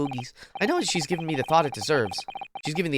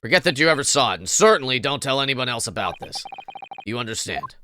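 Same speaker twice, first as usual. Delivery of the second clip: lower, a hint of a menacing father; low, mock-threatening dad; lightly voiced father; 4 semitones lower than usual. Father warning his daughter.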